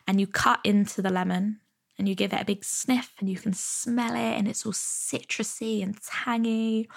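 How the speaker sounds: walk them gently through the lemon; guided visualisation. Shown as a demonstration. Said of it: "if I said to you".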